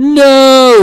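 high shouted no, mimicking the child; imitated scream. Imitating son's shout about his lost tower. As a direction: yell it like the kid did. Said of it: "Noah just screamed".

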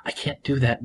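a gentle hushed plea; soft voiced whisper. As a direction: murmur it tenderly to her husband. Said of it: "Nadia whispered".

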